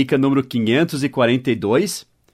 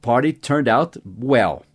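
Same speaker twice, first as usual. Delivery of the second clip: slow model sentence; slower than usual. Shown as a demonstration. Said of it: "né?".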